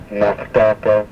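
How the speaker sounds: Nachtaka with a German Ach-like throat H; guttural H. Shown as a demonstration. Teacher demonstrating the guttural H, like German Ach. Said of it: "as in the German word Ach".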